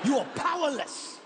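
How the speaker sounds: lightly voiced intense guide; emphatic, imitated pronouncement; imitating a grave gorilla expert; tour guide's solemn instructions. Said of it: "exactly what he said to us".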